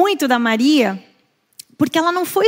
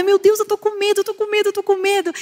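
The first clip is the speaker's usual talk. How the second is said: put-on high, thrilled and all worked-up voice; 8 semitones higher than usual. Retelling a story, acting out Lois Lane before flying: imitating excited Lois Lane. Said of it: "fica toda empolgada".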